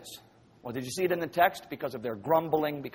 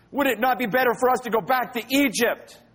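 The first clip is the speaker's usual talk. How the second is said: grumbling; 7 semitones higher than usual. Acted. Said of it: "They grumbled against Moses and Aaron".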